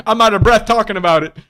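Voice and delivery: breathless chuckle at himself; laughing. Real, not acted. Host laughing at his own excited rant, breathless.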